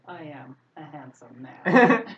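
slow, loud, self-satisfied boast; smug handsome man. Retold or imitated. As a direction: strut it like a vain pretty boy. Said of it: "walking around with that sort of look".

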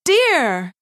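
high, fretful little microphone voice; distressed toy cry. A narrator's reading. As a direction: wail it like a worried toy. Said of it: "she cried".

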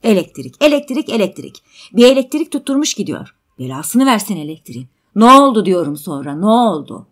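loud, fed-up ranting; irritated, forceful insistence; exasperated outburst. Acted. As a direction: rant impatiently, then demand loudly. Man exasperated, demands rest of story.

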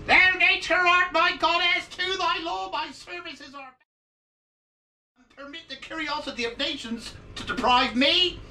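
very high, theatrical Shakespeare recitation; Shakespearean recital. Acted. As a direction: declaim it like a grand actor. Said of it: "recite a little bit of Shakespeare".

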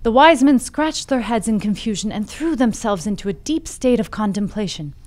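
measured fable storytelling; story narration. A narrator's reading. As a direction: tell it like an old fable, with deliberate phrasing. Reads the fable aloud.

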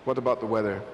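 normal talking voice

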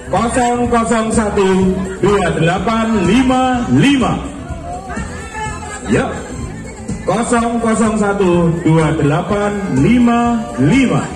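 slow, drawn-out number call; booming prize announcer. Acted. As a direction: stretch every digit for the crowd. Calls out the raffle number.

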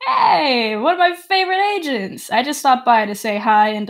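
high, bright-eyed NPC greeting; Threepwood voice. Acted. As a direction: gush like an overeager agent. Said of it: "the guy walks over and he's like".

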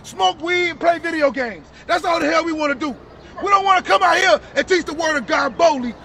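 forceful, emphatic preaching; street preaching. Real, not acted. Preacher to brother about Israel's promises, forceful preaching.

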